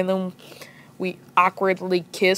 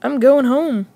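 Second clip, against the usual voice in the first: higher-pitched retold huff; fed up; 6 semitones higher than usual. Boy ending quarrel with girlfriend, fed-up huff. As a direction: declare it as a mock exit line. Acted end of phone quarrel.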